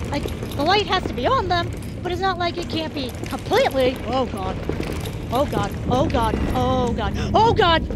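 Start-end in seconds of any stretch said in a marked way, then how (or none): 4.1-7.9 panicked moaning building to a cry; anguished denial. Real, not acted. Monster approaching, rising panic.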